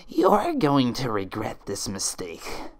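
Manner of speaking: slow, sinister declaration; menacing threat. Acted. Creature threatening Twilight, slow menace. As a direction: warn her coldly. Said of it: "the thing declared".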